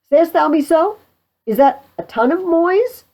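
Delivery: high, loud, incredulous questions; blustering challenge. Acted. Pistol demands money of his prisoner, loud and incredulous. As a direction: demand it like a swaggering captor.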